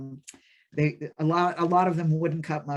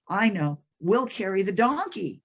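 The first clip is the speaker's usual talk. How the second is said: lightly acted eureka, pitched up; sudden bright idea; 5 semitones higher, 4 dB louder than usual. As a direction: announce a plan with mild excitement. Old man hits on a new idea.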